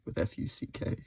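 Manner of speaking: unvoiced whisper, spelled letter by letter; whispered spelling. Real, not acted. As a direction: spell the curse out in a hush. Spelling out a curse word.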